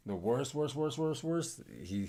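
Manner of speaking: building emphasis on worst; stressed repetition. Real, not acted. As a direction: pile up the word worst. Repeating worst with rising emphasis.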